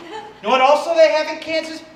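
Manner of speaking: ordinary delivery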